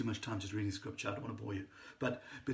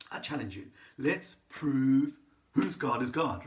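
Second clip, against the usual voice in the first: slow challenge, growing louder; bold challenge; 5 dB louder, slower than usual. Retold or imitated. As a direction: throw down the gauntlet, stretching it out. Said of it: "challenges these, these false prophets".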